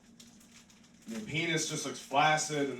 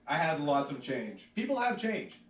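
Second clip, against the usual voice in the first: ordinary talk, nothing marked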